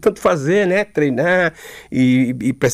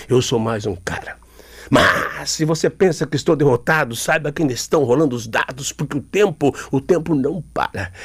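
low, slowed-down spoken-word slam; slam declamation; 3 semitones lower than usual. Shown as a demonstration. Poet shows the interviewer a song turned into slam. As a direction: rework the song lyric as a heavy spoken poem. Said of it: "vou trazer pro slam".

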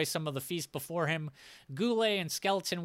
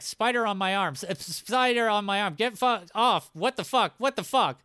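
startled, louder, higher panicky reading; panicked reading; 4 semitones higher, 3 dB louder than usual. Retold or imitated. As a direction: read it like a spider just landed on you. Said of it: "I typed that out while the spider was on my arm".

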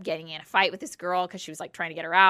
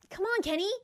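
teasing protest; 13 semitones higher, 6 dB quieter than usual. Real, not acted. Teasing a coworker's joke.

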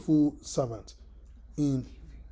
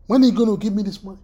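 fast, pushy, louder demand for the money; mock harassing demand; 3 semitones higher, 5 dB louder, much faster than usual. Creditor badgering a man who owes five dollars, fast and pushy. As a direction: hound him for the cash, rushing the words.

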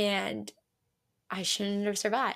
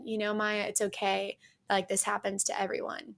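softer, gently reassuring retold friend; mildly consoling; 4 dB quieter than usual. Friend consoles her after a bad night, mildly soothing. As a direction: lightly voice a friend offering comfort. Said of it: "trying to console me".

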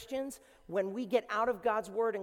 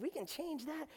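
higher light voice; 8 semitones higher, 8 dB quieter than usual. Retold or imitated. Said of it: "She's like".

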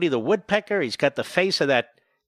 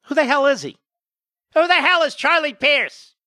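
much higher and louder, scornful; indignant outburst; 11 semitones higher, 4 dB louder than usual. Real, not acted. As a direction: bellow it in disbelief. Host mocks a guest.

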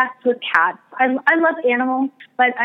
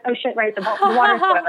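laughing realization. Retold or imitated. Realizing the cat's message.

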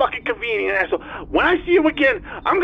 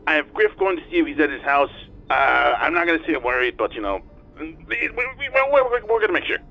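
tinny talking telephone; 3 semitones higher, 4 dB louder than usual. Acted. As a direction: voice over a speakerphone. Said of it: "answered with the speaker on".

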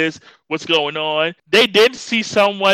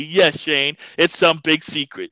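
sarcastic; 3 semitones lower than usual. Retold or imitated. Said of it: "here comes Cam sarcastically".

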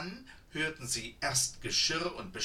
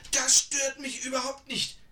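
put-on high, louder brushing-off of an old woman; old woman waving it off; 12 semitones higher, 8 dB louder than usual. A narrator's reading. Old woman dismisses the muddy clothes, high and loud. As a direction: wave the worry away as a fussy old woman. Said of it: "wehrte die Alte ab".

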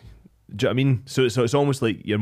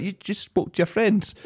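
wife's quip; 9 semitones higher than usual. Retold or imitated. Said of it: "she's like".

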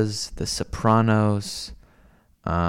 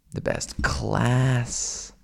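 breathy whispered, slow and drawn out; much slower than usual. Real, not acted. Praising Italy to chat, whispered. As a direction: let it drop to a hushed whisper. Listing Italy's best things.

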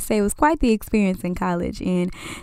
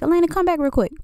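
mom calling; 8 semitones higher, faster than usual. Retold or imitated. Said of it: "was like".

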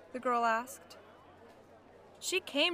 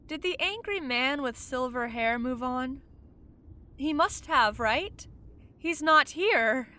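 rising, louder, pressing questions; agitated questioning; 2 semitones higher, 4 dB louder than usual. Acted. Ghost insisting to himself the angry man is gone, growing alarm. Man's voice rises, anxious.

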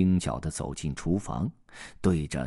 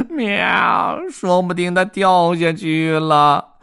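higher, louder tearful cat cry; 11 semitones higher, 9 dB louder, slower than usual. Acted. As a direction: cry out in panic at the cliff edge. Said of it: "猫哭着大喊".

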